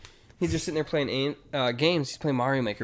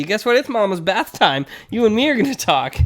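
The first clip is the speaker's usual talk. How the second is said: louder, higher, mock-stern parent; stern dad; 7 semitones higher, 6 dB louder than usual. Dad telling his kid mom can't help now, mock stern. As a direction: lay down the law as an acted-out dad.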